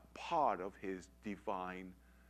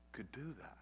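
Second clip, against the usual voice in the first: whisper; 5 dB quieter than usual. Real, not acted. Hushed confession of disbelief.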